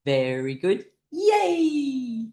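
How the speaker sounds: chanted praise into a high whoop; group cheer. Shown as a demonstration. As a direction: chant evenly, then burst into yay. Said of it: "clapping hands and going".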